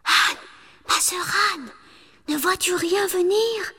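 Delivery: wife calling to the tower top; anxious calling. A narrator's reading. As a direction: call up to Anne, anxious. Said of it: "sa cadette lui demandait".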